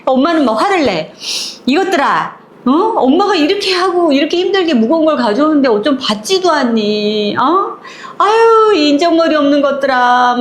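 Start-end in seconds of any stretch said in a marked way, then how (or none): 1.6-7.8 mother's exasperated scolding, rising to a cry. Retold or imitated. Mother scolding her kids for not helping, exasperated. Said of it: "막 이러면서". 8.2-8.7 loud high exasperated "아유"; exasperated groan. Retold or imitated. Mother fed up with her children, loud groan. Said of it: "막 이러면서". 8.8-10.4 mother's exasperated scolding, rising to a cry. Retold or imitated. Mother scolding her kids for not helping, exasperated. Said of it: "막 이러면서".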